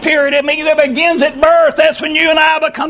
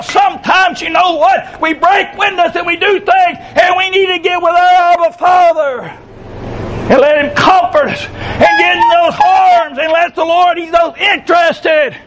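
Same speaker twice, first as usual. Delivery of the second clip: raised, fervent preaching voice; 3 semitones higher than usual. Real, not acted. Preacher rousing the congregation with fervent voice. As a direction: preach it out with full force.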